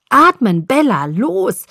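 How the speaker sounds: loud, high, urgent begging; desperate pleading. A narrator's reading. Jacob begging the half-drowned Bella to breathe, desperate pleading. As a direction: plead with her to come back. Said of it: "flehte Jacob".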